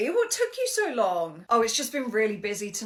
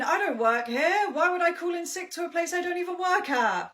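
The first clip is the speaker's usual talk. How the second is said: mock indignant denial; 4 semitones higher than usual. Caught out, denying loudly.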